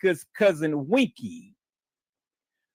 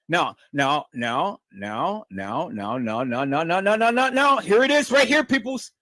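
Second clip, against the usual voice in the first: rising build-up; 3 semitones lower than usual. Real, not acted. Host revving up the audience for the reveal, building excitement.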